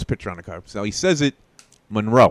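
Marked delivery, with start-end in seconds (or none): 1.9-2.3 Monroe as mun-ROE, second syllable stressed; correct stress. Retold or imitated. Co-host quoting the correct version, Monroe stressed on the end. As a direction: put the weight on the end of Monroe.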